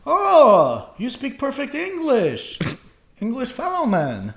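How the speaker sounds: high, loud excited oh; excited reply. Retold or imitated. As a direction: burst out delighted at the news. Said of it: "I'm like".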